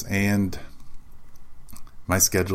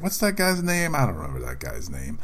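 forgetful host. Pretend. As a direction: play a host blanking on a name mid-show. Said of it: "I'd be like".

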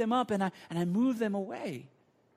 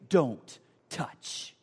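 measured, firm parental correction; 4 semitones lower than usual. Acted. Father correcting his child after slapping the hand, firm. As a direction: lay down the rule without raising pitch.

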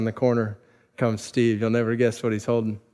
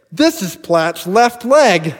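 very slow, higher and louder, each word landed; slow punchline; 7 semitones higher, 7 dB louder, much slower than usual. Retold or imitated. Bully to rescuer, a slow, deliberate comic punchline. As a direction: let the joke land word by word.

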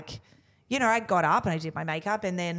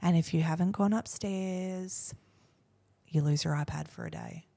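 forced calm; 5 dB quieter than usual. Retold or imitated. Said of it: "as calm as I".

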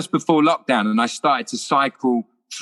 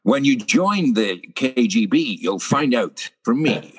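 slow Scottish Connery drawl as a Russian agent; slow Scottish accent playing a Russian; Sean Connery impression; slower than usual. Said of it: "never did any other accent except for his own".

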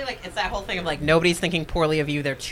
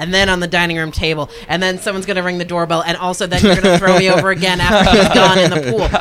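building demand; 6 dB louder than usual. Retold or imitated. Voicing women's over-the-top demands.

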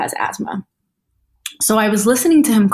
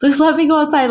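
high-pitched mock plea; imitated pleading; 8 semitones higher than usual. Retelling locked-in grandfather begging to go outside, imitated pleading.

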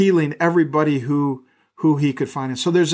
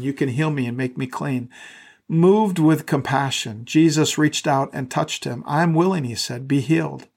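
measured, steady reading of scripture. Acted. Pastor reading Mark to the church, measured reading voice. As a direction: read the Gospel aloud to the congregation.

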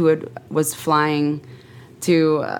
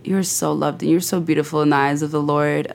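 tender blessing; 3 semitones lower than usual. Real, not acted. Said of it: "anything you'd like to just close with".

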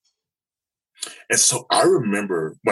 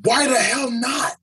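much higher, slow mock yell; retold yell; slower than usual. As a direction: counselor yells back at the speaker, mock yell. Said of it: "did he just yell at me".

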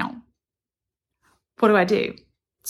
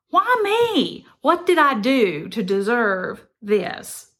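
whiny self-pity; 2 semitones higher, slower than usual. Retold or imitated. Self-pitying pity party.

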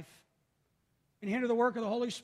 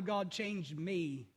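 slow quiet prayer; much slower than usual. Retold or imitated. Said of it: "I ask God all the time".

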